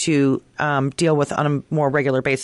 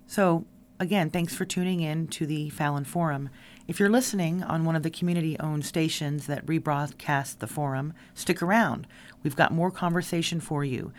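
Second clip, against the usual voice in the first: softer, measured host outro; radio sign-off; 7 dB quieter than usual. Real, not acted. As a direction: wrap up the show for listeners.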